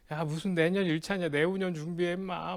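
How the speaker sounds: scoffing at a pal's ambition; mocking friend. Friends scoffing at his first-round exam plan, mocking. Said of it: "날 비웃었던 친구들".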